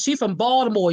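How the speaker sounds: Baltimore said the local way; Baltimore accent. Shown as a demonstration. Host shouting out listener from Baltimore, Baltimore accent. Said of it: "You gotta say it like that".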